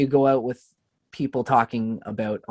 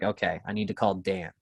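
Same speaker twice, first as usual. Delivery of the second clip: anxious mom; 5 semitones lower, 7 dB quieter than usual. Retold or imitated. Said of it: "she's like".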